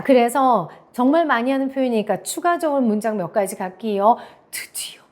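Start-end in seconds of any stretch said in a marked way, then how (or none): 4.5-5.0 acted secretive whisper; hushed whisper. Teacher acting out confiding in a friend, whispered. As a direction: whisper it under your breath.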